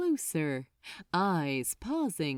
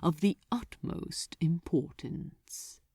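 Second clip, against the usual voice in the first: low, silky demon voice, relishing it; lightly voiced archdemon; 3 semitones lower, 3 dB quieter than usual. Archdemon to Crowley, savoring his orders, low and silky. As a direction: purr the orders like a pleased devil.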